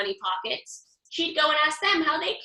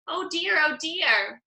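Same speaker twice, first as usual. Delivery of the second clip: mild mock crying; 5 semitones higher, slower than usual. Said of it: "started to cry again".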